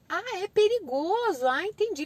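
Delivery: wide-eyed little learner; child catching on. Acted. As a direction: play a toddler who finally gets it. Voices child grasping the word.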